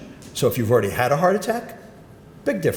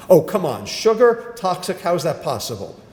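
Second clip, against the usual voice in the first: incredulous scoff; 5 semitones higher than usual. Retold or imitated. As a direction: imitate a doubter scoffing at the idea. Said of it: "People say to me all the time".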